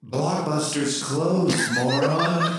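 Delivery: ghost voice. Acted. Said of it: "kind of like a ghostly voice".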